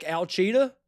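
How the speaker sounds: "Alchita" as ow-CHEE-ta; "Alchita" sounded out with a CH; spelling pronunciation. Shown as a demonstration. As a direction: read "Alchita" as it looks on paper. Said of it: "looks like".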